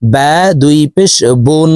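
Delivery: বুন with rounded lips and a ringing n; rounded-lip tanween. Shown as a demonstration. Teacher showing double pesh, rounded-lip বুন. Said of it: "দুই ঠোঁট গোল করে উচ্চারণ করব".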